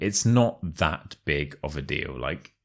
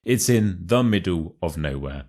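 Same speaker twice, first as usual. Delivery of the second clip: "middle" and "nowhere" punched for emphasis; teacher's demo stressing "middle" and "nowhere". Shown as a demonstration. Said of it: "put the stress on the words middle and nowhere".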